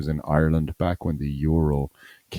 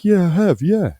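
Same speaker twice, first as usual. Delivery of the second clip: much higher, louder Australian ad voice; hammed-up Australian bloke admitting it; high, loud mock Australian reply; mock Australian man; 13 semitones higher, 5 dB louder than usual. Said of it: "they're all talking Australian".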